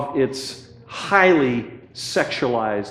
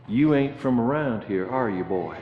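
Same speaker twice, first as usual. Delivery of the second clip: put-on a light rural Virginia accent, ending lower and softer; Virginia old boy; 3 semitones lower, 6 dB quieter than usual. A Virginia local questioning the outsider, lightly put-on Southern accent. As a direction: lightly imitate a Virginia country man sizing up a stranger. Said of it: "When he heard my accent, he said".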